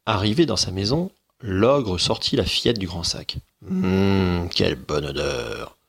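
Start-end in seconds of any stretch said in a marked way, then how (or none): 3.7-5.8 delighted ogre. Acted. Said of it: "se réjouit-il".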